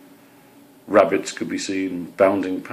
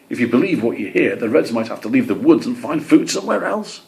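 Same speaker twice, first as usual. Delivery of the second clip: greenfinch voice; 5 semitones higher, 4 dB louder than usual. Acted.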